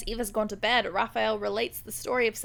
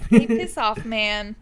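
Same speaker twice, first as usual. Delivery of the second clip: mock angry; 7 dB louder, slower than usual. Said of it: "he's like".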